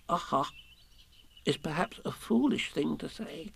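hesitant, slightly high little voice; fidgety. A narrator's reading. Piglet explaining his worry about Kanga, nervously. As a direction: object timidly, halting between phrases. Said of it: "fidgeting a bit".

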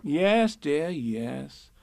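soothing mother, easing downward; gentle, placating Kanga. A narrator's reading. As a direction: humour the child soothingly. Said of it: "said Kanga soothingly".

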